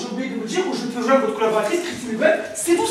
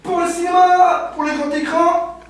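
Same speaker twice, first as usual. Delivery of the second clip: mock Belgian accent; 3 semitones higher than usual. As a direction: lay it on thick. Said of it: "producteur belge".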